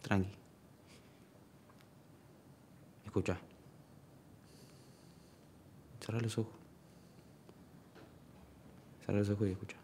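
quiet, soothing voice; soft reassurance. Acted. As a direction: gently settle the listener, leaving long pauses. Soothing someone lying at a bedside.

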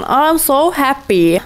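slow, drawn-out mock delight; playful drawn-out cheer; mock happy. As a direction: ham up the joy, lightly. Joking about food stats.

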